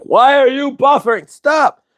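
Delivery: mock rage at a frozen stream; shrill pretend fury at buffering; retold angry outburst. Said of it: "I got angry".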